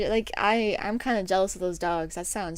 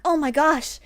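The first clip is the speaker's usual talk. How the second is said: mock pity; 7 semitones higher, 7 dB louder than usual. Customers pitying the cashier.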